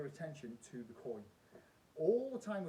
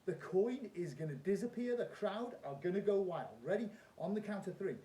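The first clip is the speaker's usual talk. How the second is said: loud, high showman patter; kids party magician; 6 semitones higher, 9 dB louder than usual. Acted. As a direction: play it big for the crowd. Performs trick as stage magician.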